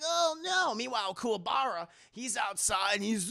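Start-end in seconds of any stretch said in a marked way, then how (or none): 0.0-0.7 mock panic. Girl trapped by fire, panicking.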